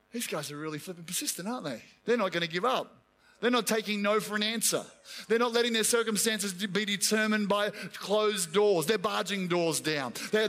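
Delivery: low, muttering complaint of the devil; a lightly voiced devil complaining about the church; grumbling devil. Devil complaining about persistent prayers.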